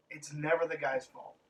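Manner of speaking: normal talking voice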